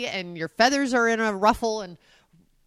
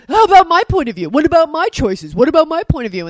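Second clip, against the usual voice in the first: loud, high, whiny imitation; mock protest; 6 semitones higher, 10 dB louder than usual. Mimicking spouse asked for a favour, mock protest. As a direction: protest in hammed-up indignation. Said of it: "You're like".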